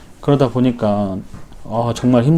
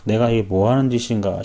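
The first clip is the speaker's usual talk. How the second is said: softer, sighing self-doubt; sighing self-reproach; 2 semitones lower, 8 dB quieter than usual. Retold or imitated. 집에 와서 자신을 돌아보며 한숨 섞인 자책. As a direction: sigh and question yourself under your breath. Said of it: "나 자신을 보고 있으면은".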